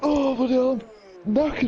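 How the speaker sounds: high, startled swearing; shocked outburst. Real, not acted. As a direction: blurt it out in shock. Mid-race shock.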